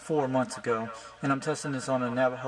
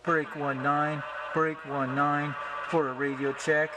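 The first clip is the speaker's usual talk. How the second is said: slow, drawn-out trucker radio call; slower than usual. Shown as a demonstration. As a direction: call it out over the CB. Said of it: "Use the channel nineteen".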